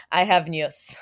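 a light Polish accent on "I have news". Shown as a demonstration. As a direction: say "I have news" with Polish vowels, long and rounded on "news". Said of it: "my favorite word to say in the Polish accent is news".

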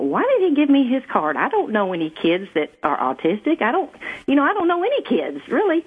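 lightly acted bewilderment; retold puzzlement. Retold puzzled thought about the card.

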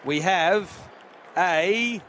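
excited call over crowd boos; cricket commentator. Acted. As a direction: rise for the catch. Live catch and all out call.

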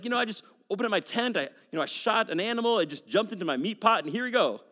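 lightly acted breezy excuse; glib lying. Jacob lying to his blind father, mock casual. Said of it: "the credit for his lie".

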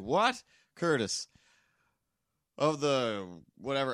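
put-on high, loud puzzled old man; old man confused. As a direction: squint and shout like he can't hear. Old man's voice in story.

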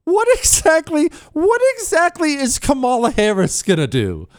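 high, incredulous mock question; sarcastic high disbelief; mocking incredulity. Mocking Kamala Harris visit.

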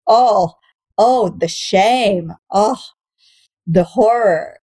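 slow, hammed-up lament; mock horror. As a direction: play the tragedy as a joke. Mocking her gripes.

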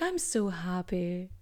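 slow, soft, deflated I'm so happy; mock sad voice. Host mimics herself saying happy in the saddest voice. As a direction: say happy as if it hurts. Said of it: "she said in the saddest voice".

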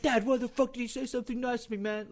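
high-pitched pretend whine; mock complaint. Son jokingly blaming his dad, high mock-exasperated complaint.

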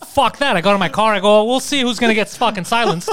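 worked-up defiance. Retold or imitated. Storyteller acts out his outrage at being silenced, worked-up and loud. Acting out his angry reaction in retelling.

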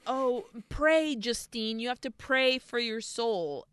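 mildly melodramatic pleading; lightly mock a bad actress urging prayer; hammy Mother Superior. Imitating horrible actress as Mother Superior, lightly hammed-up plea. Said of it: "this horrible actress, is like".

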